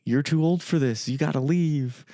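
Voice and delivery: shooing away. Retold or imitated. Retelling Casey sending Art from her door, lightly shooing. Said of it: "kinda basically shooing him away".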